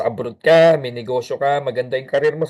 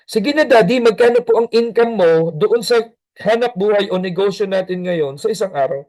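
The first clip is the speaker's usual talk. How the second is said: lightly voiced child, louder and wheedling; a hint of a begging kid; pleading child; 6 semitones higher, 4 dB louder than usual. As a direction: coax your busy dad, a little louder.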